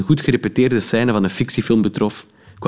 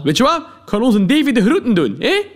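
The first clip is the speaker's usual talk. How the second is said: calling out. Acted. Policeman calls from the car window, laughing shout. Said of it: "riep hij nog snel".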